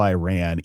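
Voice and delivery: "Iran" said as eye-RAN; "Iran" the American way, eye-RAN; Anglicised pronunciation. Shown as a demonstration. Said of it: "we can say Iran instead of Iran".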